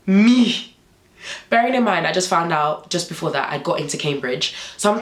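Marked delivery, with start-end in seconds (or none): 0.1-0.7 loud, high one-word yelp; mock-aghast, raised-pitch question; shocked disbelief. Rider hears of the arrest, loudly aghast.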